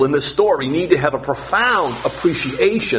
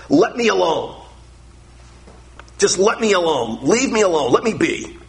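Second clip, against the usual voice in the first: mild angry God; 2 semitones higher than usual. Acted. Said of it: "God says to Moses".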